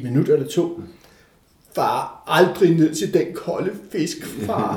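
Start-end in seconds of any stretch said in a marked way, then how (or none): 1.7-4.8 slow, drawn-out mimicked child's mumbo-jumbo; imitating delirious child. Father retelling his freezing son's odd words, slow child imitation. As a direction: draw it out like a confused child. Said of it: "begyndte han nærmest at sige et eller andet".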